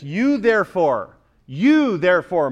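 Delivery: "You" drawn out with emphasis; stress on YOU. Shown as a demonstration. Preacher reading the verse's emphatic opening, stress on "You". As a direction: lean slowly on the word "You". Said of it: "begins with an emphatic "you".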